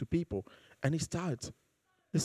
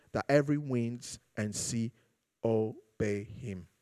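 scripture reading. Acted. Preacher reading Matthew to the congregation, reverent.

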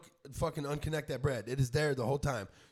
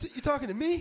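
higher, punchy mock Hispanic challenge; tough Latina accent; 10 semitones higher, 3 dB louder than usual. Imitating a tough Hispanic woman confronting a man. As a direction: play the Hispanic woman who'll cut you. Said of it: "what's the best accent on a female".

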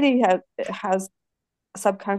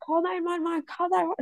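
higher, softer urgent repeat; urgent plea; 7 semitones higher, 5 dB quieter than usual. Retold or imitated. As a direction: beg someone to dial fast. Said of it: "And Jason's like".

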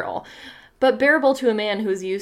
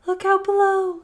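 higher, sharp warning call; 11 semitones higher than usual. Acted. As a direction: snap the warning out high. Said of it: "called the voice sharply".

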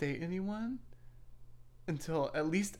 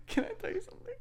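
whisper; 4 dB quieter, faster than usual. Real, not acted.

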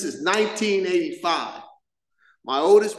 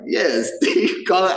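laughing, louder towards the end; laughing dare; 2 semitones higher, 5 dB louder, slower than usual. Retold or imitated. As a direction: egg him on with a laugh. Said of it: "I'm like".

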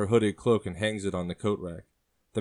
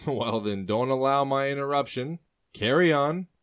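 lightly voiced man, rising into a louder carry on; amused sailor; 6 semitones higher, 4 dB louder than usual. Sailor tells the woman to carry on, lightly amused. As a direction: wave her on with amusement. Man chuckling, waves her on.

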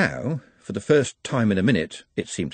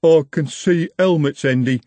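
higher-pitched urgent warning; 6 semitones higher, 5 dB louder than usual. A narrator's reading. Gang member warning Andy the watch is coming, urgent. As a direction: alert the boss to danger, urgently. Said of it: "said Jumbo urgently".

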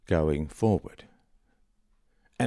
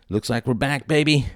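excited; 8 semitones higher, 7 dB louder than usual. Real, not acted. Celebrating the show's return.

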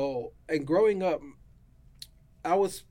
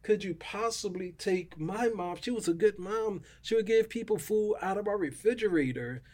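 angry at God; 6 semitones higher than usual. Retold or imitated. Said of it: "I was so angry at God".

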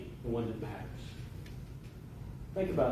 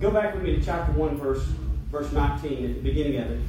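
preaching. Acted. Preacher to congregation, underlining verses in Esther, emphatic preaching. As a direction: preach the verses out with force, leaning on key words.

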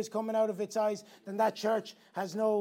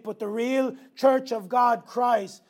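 preaching shout; slower than usual. Real, not acted. Preaching climax.

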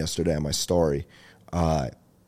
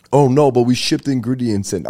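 defensive pizza shop; 3 semitones higher, 4 dB louder than usual. Pretend.

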